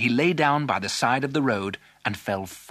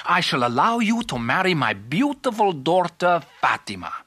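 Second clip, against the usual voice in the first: higher, swooping royal proclamation; overjoyed king; 4 semitones higher, 3 dB louder than usual. Acted. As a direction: grant a grand reward as king. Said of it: "The king was overjoyed".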